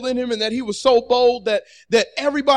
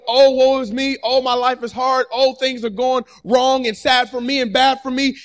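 whining; 2 semitones higher than usual. Pretend. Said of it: "complaining and whining".

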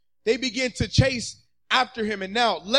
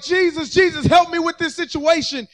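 raised-pitch plea; pleading prayer; 5 semitones higher, 4 dB louder than usual. Acted. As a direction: plead with a lifted voice. Voices people praying for help.

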